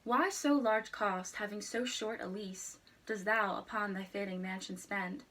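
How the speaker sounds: measured, solemn poetry reading; reciting a sonnet. Shown as a demonstration. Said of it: "I will recite it again".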